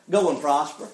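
low, dry mock agreement; sarcastic. Prophet answering the king's question, sarcastic. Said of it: "watch him get, uh, sarcastic".

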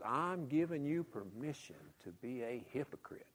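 hushed conspiratorial whisper. Retold or imitated. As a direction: let them in on a secret. Whispered confidential quote.

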